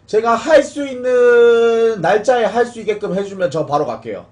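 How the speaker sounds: loud, slow begging; pleading shout. Real, not acted. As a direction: call out a slow pleading offer. Pleading with the older player.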